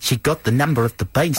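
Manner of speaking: playful South African-style mimicry; mock South African accent. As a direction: parody the actress's South African-sounding vowels. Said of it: "It is sort of South African".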